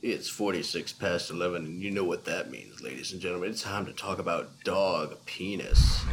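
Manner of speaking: radio DJ voice. Pretend. Radio DJ intro.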